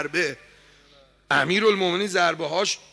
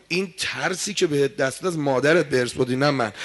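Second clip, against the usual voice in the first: stern rebuke; 4 semitones lower, 6 dB louder than usual. Acted. Ali scolds his son in battle.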